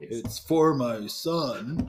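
slow, lightly put-on adult customer; a hint of a phony, deliberate dad; fake grown-up voice. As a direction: draw it out as a pretend parent. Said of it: "Like a super deep fake voice".

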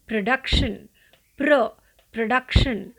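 प्रोडक्शन with a short first vowel, no long o; careful teacher model of प्रोडक्शन; correct production. Shown as a demonstration. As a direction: split प्र then प्रोडक्शन, short pruh. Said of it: "आपको ओ का sound नहीं लेना".

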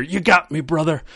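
hammed-up Hulk Hogan groan. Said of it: "I always just hear".

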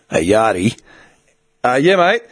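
a hint of a low, authoritative bloke; lightly put-on commanding worker voice; put-on deep voice. Warehouse worker calls the yard on the radio, mock authoritative. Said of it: "I would fuck around with my voice like that".

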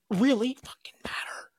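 breathy whispered aside; hushed muttered swear. Real, not acted. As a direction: drop to a whisper for the curse. Muttered aside about the show.

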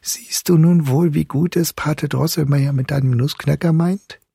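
high, kindly smiling voice; smiling mother. A narrator's reading. Mother reassures Marie about her godfather, high and smiling. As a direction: say it with an audible smile, pitched high. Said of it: "die Mutter sagte lächelnd".

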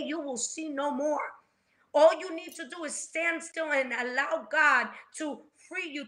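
motivational speech. Retold or imitated. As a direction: preach it up, stirring the crowd to stand firm. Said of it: "He's giving them the motivational speech".

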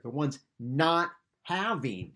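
"not" held out and set apart; slow down and lean firmly on "not"; stress on "not". Shown as a demonstration. Preacher repeating the Greek phrase for listeners, "not" emphasized. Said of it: "There's an emphasis in there".

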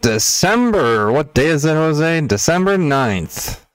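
blown-out overdriven mic; loud distorted clipping audio. Real, not acted. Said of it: "why do you sound so blown out".

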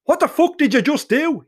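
high-pitched outraged roar. Acted. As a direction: roar it in disbelief, voice shooting up. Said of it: "he roared".

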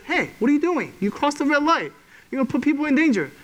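a hint of an officer's urgent reprimand; police officer. Police officer stops a red-light runner, mildly scolding. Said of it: "and police says".

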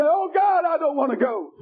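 high cry that drops away; preacher's imitation of a desperate plea; mock pleading scream. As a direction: act out a sinner begging God, half screamed. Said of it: "begin to fight and scream and say".

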